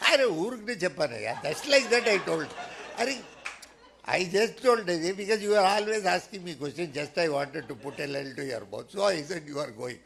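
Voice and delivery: loud, brushing it off; loud explaining. Retold or imitated. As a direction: wave it away loudly. Saint explains the joke.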